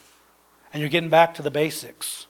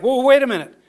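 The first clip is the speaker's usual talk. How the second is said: retold astonishment; 7 semitones higher, 5 dB louder, faster than usual. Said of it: "He was like".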